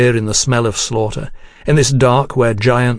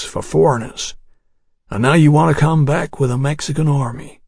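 grim Texas ranger; 2 semitones higher than usual. Acted. Ranger lists Houston's crimes.

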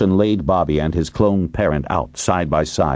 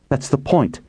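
high, exasperated retort; impatient snap; 11 semitones higher than usual. A narrator's reading. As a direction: pitch raised in sharp impatience. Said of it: "Wilson snapped".

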